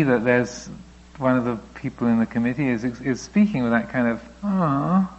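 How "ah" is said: higher, lightly whiny poor-me; mock self-pity, half-hearted whine; plaintive voice. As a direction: play a sulky committee member. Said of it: "and with a plaintive voice".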